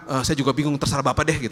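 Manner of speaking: mock-puzzled answer through a laugh; sheepish giggling reply. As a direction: say it with an embarrassed chuckle. Woman in mall unsure what prayer.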